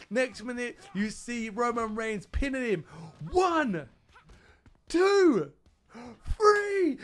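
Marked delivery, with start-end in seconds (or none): 3.3-7.0 loud, higher pin count, building; shouted ref count. Retold or imitated.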